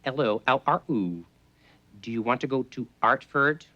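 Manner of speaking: a light Cockney try, dropping the H in Artford; lightly done Cockney accent. Shown as a demonstration. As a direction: practise a hint of Cockney, H's dropped. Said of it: "the whole Cockney thing of".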